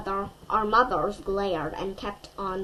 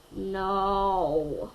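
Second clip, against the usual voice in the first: a touch of a groaning no; understated mom's groan; mild groan; 3 semitones lower than usual. A narrator's reading. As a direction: let the no sag in mild dismay. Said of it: "my mom groaned".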